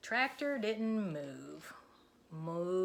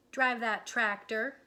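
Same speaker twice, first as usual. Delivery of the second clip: slow, louder cow; determined Moo; 3 semitones higher, 5 dB louder than usual. Acted. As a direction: spell out the plan slowly. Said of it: "said Moo".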